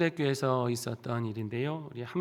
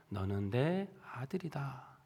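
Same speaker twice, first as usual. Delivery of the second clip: slow, softer, tender words; tender assurance; 5 dB quieter, slower than usual. Retold or imitated. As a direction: comfort him gently. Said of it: "어루만지면서 그런 말을 합니다". (다정하고 부드럽게)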